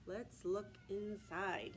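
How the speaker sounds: steady read-aloud from the book; reading to children. Acted. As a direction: read the page aloud to the class. Reads picture book to class.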